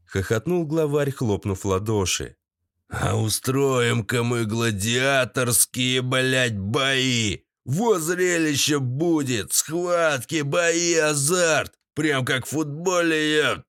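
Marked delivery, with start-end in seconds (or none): 2.9-13.6 excited gang boss. Acted. Boss announces gladiator fights excitedly.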